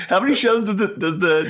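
high-pitched, fed-up protest; hammed-up exasperated retort; mock exasperation. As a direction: complain like you're being pestered. Retold exasperated reply to co-host.

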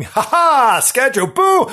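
high, loud playful boo; gloating shadow spook. Acted. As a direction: pounce like a mock spook.

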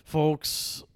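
stoned voice. Acted. Stoned mock proverb.

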